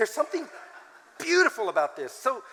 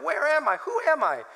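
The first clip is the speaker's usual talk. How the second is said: higher, dazed mock bewilderment; mock confusion; 7 semitones higher than usual. Tired pastor coming home, mock bewildered. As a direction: play lost and worn out. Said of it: "I'm so tired".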